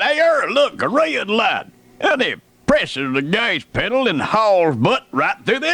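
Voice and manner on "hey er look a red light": raised voice, higher, excited; retelling a friend yelling at a red light; mock yell. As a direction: sing out the warning like a dopey buddy. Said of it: "Dub yelled out".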